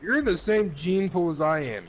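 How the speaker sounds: loud teasing comeback; loud retort. Real, not acted. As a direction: shout it back at him. Friends trading insults.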